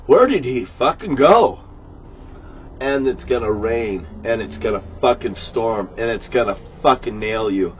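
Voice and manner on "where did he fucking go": louder, higher mock shout; mock cop yelling. Cops searching for the missing man, louder mock shout. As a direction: play the baffled cop, shouting. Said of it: "The cops are gonna go".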